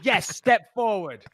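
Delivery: slow, mildly mocked officious order; a hint of a bossy security officer; mean, nasty guard. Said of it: "really mean and nasty with it".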